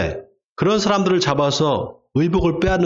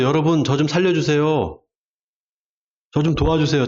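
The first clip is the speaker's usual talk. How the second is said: politely calm plea for help; composed, unhurried-sounding appeal; calm request. Shown as a demonstration. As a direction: ask for help as if nothing were urgent. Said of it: "차분하게 말할 수 있어요?".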